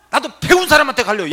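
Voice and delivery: high, shouted mimicked retort; angry taunt. Patient saying she will go to someone learned, angry shout. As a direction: hurl it as a loud insult.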